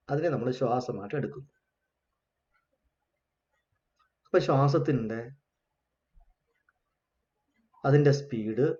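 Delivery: unhurried meditation guidance with long pauses; guided meditation. Real, not acted. Teacher leading the class to watch their breath, guided meditation. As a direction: guide them gently through the breath, pausing between phrases.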